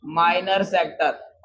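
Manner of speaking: slow repeat. Shown as a demonstration. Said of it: "क्या बोलेंगे?".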